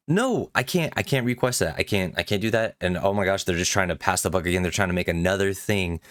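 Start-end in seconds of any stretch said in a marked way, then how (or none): 0.1-2.8 high-pitched retold panic, easing off; mock-panicked protest that settles down; freaking out. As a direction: replay a mild inner freak-out, starting high. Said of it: "I'm, like, freaking out at this point".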